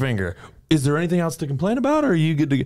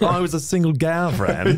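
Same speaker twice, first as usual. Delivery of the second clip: put-on English accent; 4 semitones higher than usual. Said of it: "but in an English accent".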